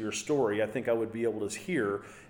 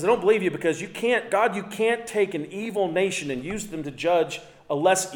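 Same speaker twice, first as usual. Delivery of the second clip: higher, louder arguing with God; indignant protest; 7 semitones higher, 4 dB louder than usual. Retold or imitated. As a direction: protest in a raised, insistent voice. Prophet argues heatedly with God.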